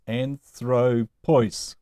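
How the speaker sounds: "anthropois" stressed on the middle syllable "thro"; stress on second-to-last syllable. Shown as a demonstration. Teacher showing the long ending moves the accent, middle-syllable stress on "anthropois". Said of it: "ois is long".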